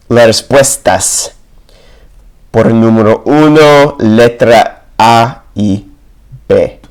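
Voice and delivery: Spanish spoken with an English accent. Shown as a demonstration. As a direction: read the answers out in learner's Spanish. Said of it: "if I sound like a gringo".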